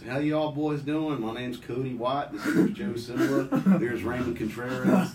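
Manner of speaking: slow, hammed-up hick greeting; lightly mock the overly friendly guard; imitating goofy teammate. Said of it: "my guard goes".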